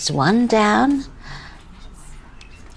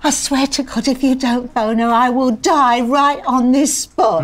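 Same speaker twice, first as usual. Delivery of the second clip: raised, urgent pleading; desperate insistence; 3 semitones higher, 3 dB louder than usual. Acted. Demanding the phone call, desperate insistence. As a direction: press the threat without a break.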